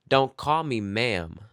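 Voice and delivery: slow, firm mock correction; offended woman. Server imitating customer correcting her, slow. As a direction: drag it out slowly. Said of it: "she's like".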